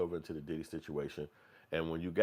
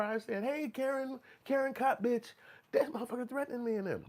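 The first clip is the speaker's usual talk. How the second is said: very high hammed-up white woman voice; exaggerated high white lady voice retelling the threat; mock white woman. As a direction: squeal it like a panicked woman telling the cops. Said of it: "a white woman".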